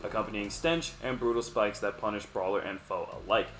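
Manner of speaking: announcer-like read of a league blurb; game text read-out. Real, not acted. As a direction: read the description out with a lively lift. Reads league description aloud.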